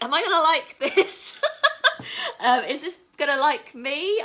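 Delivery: high, loud nervous giggle; nervous laughing. Real, not acted. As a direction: laugh through the nerves. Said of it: "I'm bricking it".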